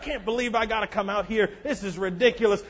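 soft, sulky griping; grumbling churchgoer. Retold or imitated. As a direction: mutter under the breath, half laughing. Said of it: "we can get there".

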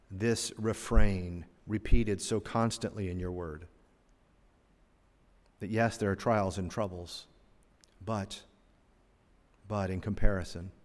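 soft, low, earnest prayer voice; quiet prayer. Real, not acted. Preacher praying to the Father, soft and earnest. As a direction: pray gently to close the lesson.

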